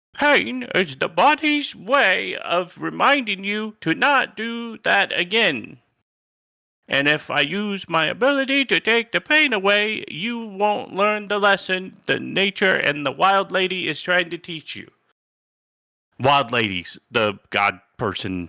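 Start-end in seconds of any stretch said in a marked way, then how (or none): 0.2-14.9 female character voice, pitched up. Retelling what Tabby told them when they got mad at her, in a Tabby voice. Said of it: "I gotta do my Tabby voice".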